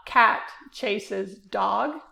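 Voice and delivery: each stressed word given its own beat, slowly. Shown as a demonstration. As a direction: say "Cat chases dog" slowly, with a stress on every word. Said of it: "I could say".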